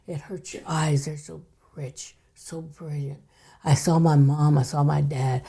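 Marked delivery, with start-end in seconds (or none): 0.1-3.2 soft, fading whisper of wonder; the spirit friend describes the brilliant colors, in a hushed whisper; hushed awe. Retold or imitated. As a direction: breathe it out in awe, barely voiced. Friend's spirit describes the other side.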